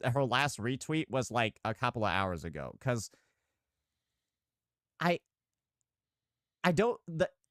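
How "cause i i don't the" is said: stuttering, halting, pitched-up false starts. Commenting on someone's recent typing, stuttering. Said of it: "Why are you stuttering?".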